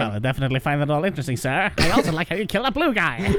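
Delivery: put-on quick, clipped old Hollywood transatlantic accent; old-movie transatlantic accent, brisk and proper. Travis answering the Troll King, in a transatlantic accent. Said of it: "Travis speaks in a transatlantic accent".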